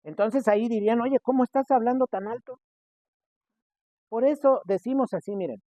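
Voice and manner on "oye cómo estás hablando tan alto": mock scolding. Scolding loudness at home.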